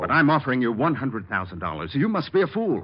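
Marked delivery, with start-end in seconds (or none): 2.0-2.8 a much higher, exasperated cry; can't believe he turned down the money; incredulous. Acted. Crook stunned when the detective refuses the bribe, incredulous.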